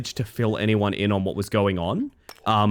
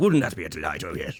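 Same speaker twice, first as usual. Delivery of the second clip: put-on silly, funny little low dropped voice; 4 semitones lower, 3 dB quieter than usual. A character who lives to serve offers to do a funny voice: funny little Business Mantis voice. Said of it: "funny little sort of gerber voice".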